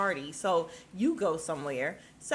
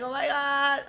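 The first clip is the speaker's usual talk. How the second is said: mock starstruck gasp; 7 semitones higher, 7 dB louder than usual. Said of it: "hopping around and holding his mouth".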